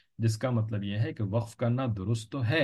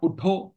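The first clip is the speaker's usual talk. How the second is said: "उठो" set apart, high and louder; stop after उठो; 9 semitones higher, 5 dB louder, much slower than usual. Shown as a demonstration. Teacher showing where to take the breath, stop after उठो. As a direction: pitch उठो up and cut it off as its own command. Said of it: "के बाद वक्फ करेंगे".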